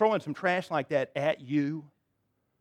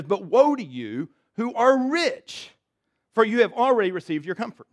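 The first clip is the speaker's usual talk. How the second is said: solemn scripture reading; 4 semitones higher, 4 dB louder than usual. Acted. Pastor reading Jesus' woe aloud.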